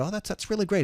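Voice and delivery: high-pitched, put-on approval; mock-sweet agreement; nervously polite reply. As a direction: humour the tough guy. Pastor humouring the mobster.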